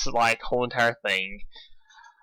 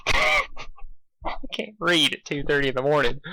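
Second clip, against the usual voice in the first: slow laughing complaint; 2 semitones higher, slower than usual. Real, not acted. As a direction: laugh through tiredness. Laughs at own mistake.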